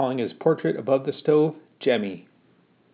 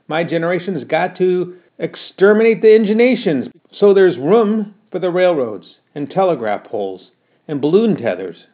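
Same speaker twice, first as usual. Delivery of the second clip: put-on louder, keen young man arguing his case; eager argument; 4 semitones higher, 6 dB louder than usual. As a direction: push the idea with youthful fervour. Son argues eagerly with Ma.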